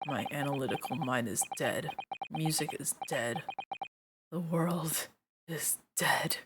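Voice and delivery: soft, dragging lament, trailing into a whisper on "dead"; a mopey detective declaring everything dead; gloomy despair. Acted. Gloomy detective lamenting to Iris, soft and defeated.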